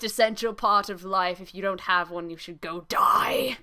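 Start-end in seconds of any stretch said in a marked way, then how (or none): 2.3-3.6 whisper. Acted. Joking aside after a wild claim.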